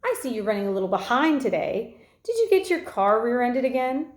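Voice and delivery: high put-on old lady announcing over a loudspeaker; dad pages the principal in a high, fake old lady voice. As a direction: mimic a fussy old lady paging someone. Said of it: "fake high old lady voice".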